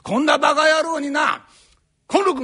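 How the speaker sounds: barked out loud and high in scorn; angry shout. Acted. Landlord yelling scornfully at the carpenter's apprentice, angry shout. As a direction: bellow the insult at him.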